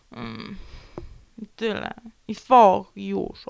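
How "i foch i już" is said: loud pouty blurt; huffy outburst. Real, not acted. Vlogger sulking at her viewers, loud. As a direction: snap the sulk out loud. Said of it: "Strzelę na was focha".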